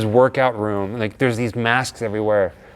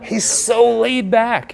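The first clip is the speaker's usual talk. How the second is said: slow dreamy drawl; 10 semitones higher, 3 dB louder, much slower than usual. Pretend. Drawn-out, mocking his relaxed manner.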